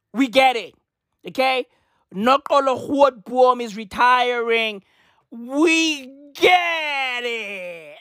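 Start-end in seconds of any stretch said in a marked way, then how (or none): 5.3-8.0 exasperated shout. Real, not acted. Exasperated at Twitter hype.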